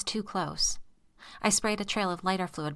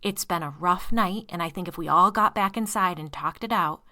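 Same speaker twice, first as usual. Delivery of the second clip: steady pleading; 6 dB louder than usual. Acted. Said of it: "that same steady voice".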